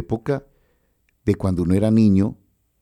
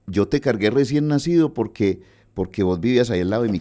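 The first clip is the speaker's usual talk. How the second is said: imitating an old musician; 4 semitones higher than usual. Old musician voiced in anecdote.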